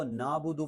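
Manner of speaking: quick "نعبد" as plain naabudu; wrong ain. Shown as a demonstration. Teacher shows the mistake, "نعبد" without ain. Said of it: "پڑھنا یہ درست نہیں ہے".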